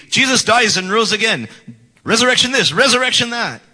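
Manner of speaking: exasperated mock preaching. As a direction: parody a tiresome sermon, punching each repeat. Mocks the repeated sermons.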